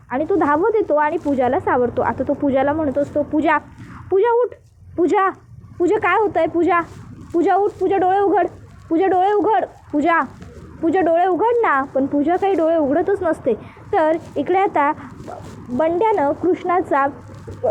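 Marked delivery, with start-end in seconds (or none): 3.2-11.8 urgent, anxious calling of her name; worried calling. Acted. Dushyant urgently calls to Pooja, who has fainted. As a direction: shake her awake, pleading her to open her eyes.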